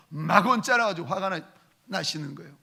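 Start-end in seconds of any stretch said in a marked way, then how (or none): none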